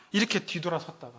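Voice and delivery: ordinary talk, nothing marked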